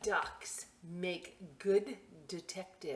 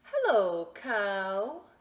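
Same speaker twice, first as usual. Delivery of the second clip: cheerful call; 4 semitones higher, 9 dB louder, much slower than usual. Acted. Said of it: "said Duck".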